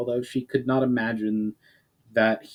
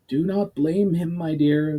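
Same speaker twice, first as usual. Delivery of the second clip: firm; 7 semitones higher than usual. Acted. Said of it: "in a firm tone".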